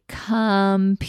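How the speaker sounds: stretched-out word; slow blending demo; said slowly. Shown as a demonstration. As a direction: say it really slowly, sound by sound. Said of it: "really slowly".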